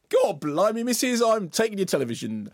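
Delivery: high, hammed-up cockney voice; exaggerated London-accent mimicry; mock cockney. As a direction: parody a chimney-sweep cockney, pitched right up. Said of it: "when Orlando started talking".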